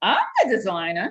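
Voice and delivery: put-on New Jersey accent. Retelling a phone call, quoting the speaker's mother in her Jersey accent. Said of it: "in her Jersey's accent".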